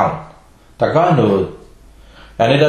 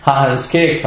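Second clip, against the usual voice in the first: laughing mock question; slower than usual. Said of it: "de går hen og kigger".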